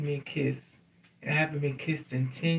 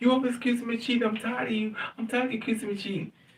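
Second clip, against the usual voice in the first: high, weepy, tearful crying voice; 7 semitones higher than usual. Retelling how an ex denied cheating: imitating someone crying. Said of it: "He's crying".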